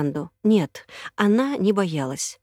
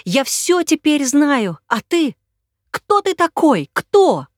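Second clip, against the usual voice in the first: high, loud, frantic crying; a woman in tears confronting a stranger; choking on sobs; 7 semitones higher, 7 dB louder, slower than usual. Acted. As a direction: demand it through tears. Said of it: "захлёбывалась от рыданий".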